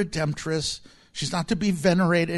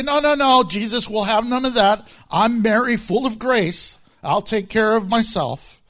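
higher, insistent pretend protest; mock refusal as Mary; 4 semitones higher, 3 dB louder than usual. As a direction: wave off help in mock self-sufficiency. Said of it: "notice she didn't say".

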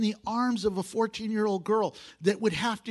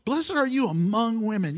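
AMONG punched as the correction; stress on among; 2 semitones higher, 3 dB louder than usual. Shown as a demonstration. Preacher correcting the misreading for the congregation, stressing "among". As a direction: firmly land on "among".

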